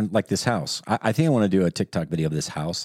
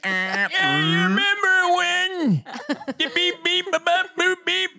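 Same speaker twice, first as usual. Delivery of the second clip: toy robot voice; slower than usual. Pretend. Joins the robot music joke.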